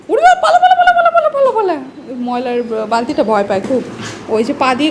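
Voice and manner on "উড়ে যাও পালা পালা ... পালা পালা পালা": high, loud rapid shoo; loud teasing shoo-shoo calls; playful shooing. Real, not acted. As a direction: chase the pet off, half laughing. Shooing the pet away.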